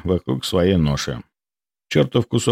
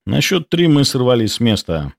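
ordinary delivery, nothing marked

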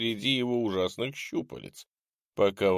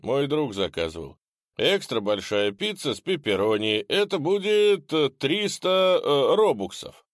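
high courier voice; 6 semitones higher, 3 dB louder than usual. Acted. Pizza courier at the door.

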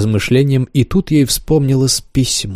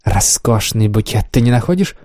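pleased admiration. Acted. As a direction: linger over the flowers. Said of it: "с удовольствием ... произнесла". (с удовольствием)

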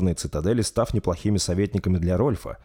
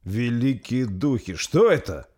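awed exclamation; 4 semitones higher, slower than usual. Acted. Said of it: "произнёс Арнотом".

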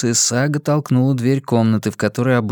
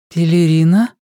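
calling out; 5 semitones higher, 5 dB louder than usual. Acted. Searching for sister upstairs.

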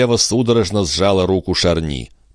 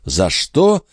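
higher, exclaiming queen's voice; 11 semitones higher than usual. A narrator's reading. Queen exclaims to Charny in a higher voice. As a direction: cry it out as the hurt queen. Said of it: "воскликнула королева".

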